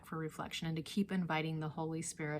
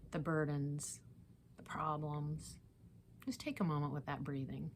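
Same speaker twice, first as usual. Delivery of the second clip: guided meditation; 5 dB quieter than usual. Real, not acted. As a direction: ease each phrase down, letting it settle. Leads breathing meditation.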